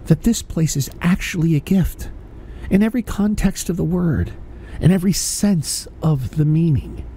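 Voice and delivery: deep inspirational persona voice; Mister Optimism. Pretend. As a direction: preach wonder at life like a guru. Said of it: "Mister Optimism".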